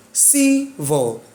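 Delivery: "Civil" with CI stretched, then falling; stress on first syllable. Shown as a demonstration. Teacher confirms the rule, "Civil" stressed on ci. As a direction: lean on ci in "Civil", light vil. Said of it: "the stress is on the first syllable".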